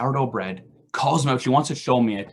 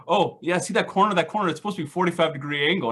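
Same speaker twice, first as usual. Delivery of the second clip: higher, smug nitpicking voice, fast at the end; mock know-it-all brother; 4 semitones higher, faster than usual. Mimicking his carpenter brother critiquing the deck, higher and smug. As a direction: mimic a fussy expert pointing out flaws. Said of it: "or like".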